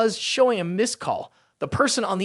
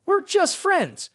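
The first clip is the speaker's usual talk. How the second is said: much higher, slow panicked cry; freaked-out yell; 11 semitones higher, much slower than usual. A narrator's reading. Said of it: "freaked out and yelled".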